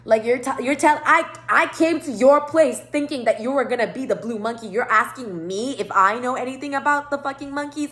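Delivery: heated disbelief; indignant confrontation. Retold or imitated. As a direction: call them out, affronted.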